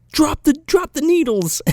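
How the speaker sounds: mock cop order. Cop orders him at gunpoint.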